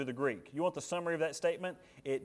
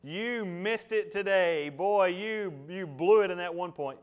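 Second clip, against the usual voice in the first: higher, louder teasing scold; mock wife scolding; 5 semitones higher, 7 dB louder, slower than usual. Preacher mimicking his wife scolding him after lunch, louder and higher. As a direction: ham up the wife's rebuke. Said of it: "and she tells me".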